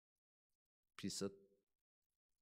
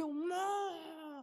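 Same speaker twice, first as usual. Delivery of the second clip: high, very slow drawn-out moo; imitating a cow's long call; 11 semitones higher, much slower than usual. Shown as a demonstration. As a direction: stretch it like a lowing cow. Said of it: "그렇게".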